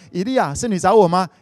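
put-on a young boy running to his master; eager boy.

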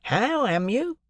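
high, joking call to the deaf; jocose greeting. A narrator's reading. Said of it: "in a cordial and jocose way".

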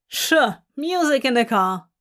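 dismissive, mild scoff; sceptical, quick throwaway agreement; Hob scoffing. Acted. Hob doubting music in the car, scoffing. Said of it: "Hob scoffs".

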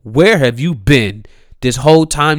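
usual speaking voice

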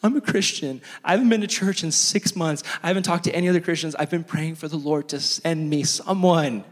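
mock a tearful, overwhelmed confession; imitating tearful bawling. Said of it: "she starts bawling".

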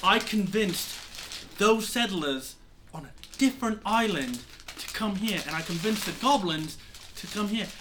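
lightly voiced, exasperated mentor pirate; exasperated Lindell. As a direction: scold your former pupil with mild exasperation. Game master plays Lindell scolding the pirate.

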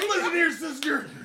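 wrestler voice. Acted. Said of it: "You gotta say it in a wrestler voice".

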